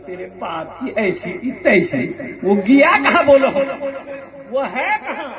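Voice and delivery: building to a loud angry demand; hammed-up furious son; angry outburst. Youngest son demanding where his father is, mock angry shout.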